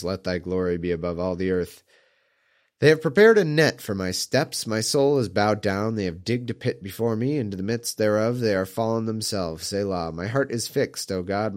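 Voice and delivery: measured psalm recitation; scripture reading. Acted. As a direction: read it like scripture, steady. Reads a psalm aloud.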